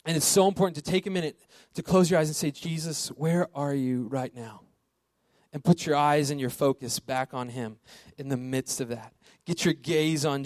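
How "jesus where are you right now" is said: slow, searching prayer; slow right down and ask it prayerfully; prayerful seeking. Shown as a demonstration. Showing listeners how to close their eyes and pray, slowly seeking.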